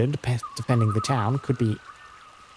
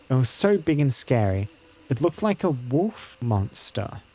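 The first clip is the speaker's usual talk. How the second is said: lightly voiced child, drawing out the scary part; a touch of childish awe; scared village child; slower than usual. Child describing a wolf monster to a visitor, lightly voiced and mildly scared.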